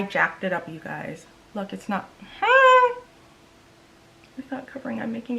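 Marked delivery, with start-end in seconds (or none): 2.4-3.0 high, loud whine; short high squeal of exasperation; frustrated squeal. Real, not acted. To viewers as the cover-up fails, frustrated squeal.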